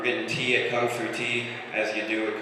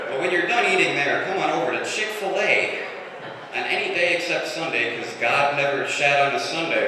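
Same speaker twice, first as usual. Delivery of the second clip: hammed-up commercial announcer, louder and higher; mock bathroom ad; 3 semitones higher, 3 dB louder than usual. Comedian parodying an ad for a bathroom, mock announcer voice. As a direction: sell the toilet like a cheesy TV spot. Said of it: "Like she was making an ad for a bathroom".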